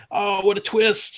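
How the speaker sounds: put-on high, slow, wide-eyed kid marvelling; naive kid. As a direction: gasp at the twist like a child. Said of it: "as a kid, I was like".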